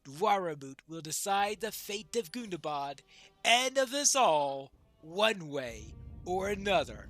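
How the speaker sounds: measured, declaimed character reading; lightly voiced dwarf prince. Dwarf prince weighs the call to moot, lightly declaimed. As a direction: deliver it as a lightly acted proud dwarf.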